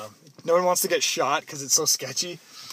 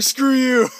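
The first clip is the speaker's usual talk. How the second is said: louder, higher mock snap; 6 semitones higher, 6 dB louder than usual. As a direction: toss it off like a sulky teen. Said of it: "It's like".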